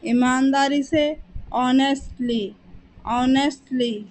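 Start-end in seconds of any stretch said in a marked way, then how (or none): 1.5-4.1 ऑनेस्टली said as on-est-lee, starting on the O with no h sound; silent h. Shown as a demonstration. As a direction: begin ऑनेस्टली straight on the vowel, the h silent. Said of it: "यहाँ पर एच silent होता है".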